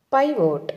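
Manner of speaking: "pivot" with a long "pie" first, then "vote"; teacher's careful model of "pivot" as pie-vote; model pronunciation. Shown as a demonstration. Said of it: "ఎలా పలకాలి".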